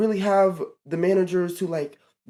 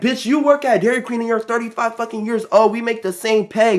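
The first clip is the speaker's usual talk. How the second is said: high-pitched retold put-down; angry comeback; 5 semitones higher, 4 dB louder than usual. Teen putting down older coworker, retold angry comeback. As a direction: fling it back higher and louder.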